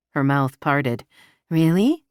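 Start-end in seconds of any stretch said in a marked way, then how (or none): 1.5-2.0 rising, delighted disbelief; light surprised question, lifting at end. Acted. Surprised at his offer.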